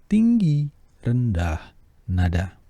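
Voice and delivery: Tinggi very high, rendah back down low; high then low. Shown as a demonstration. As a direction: leap up on Tinggi, drop on rendah.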